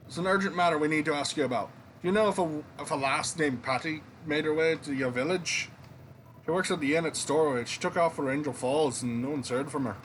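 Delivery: put-on reading game dialogue in a slipped-in Scottish accent; lightly put-on Scottish accent. Soldier asks Ivor about a missing lass, Scottish accent. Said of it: "slipping into the Scottish accent".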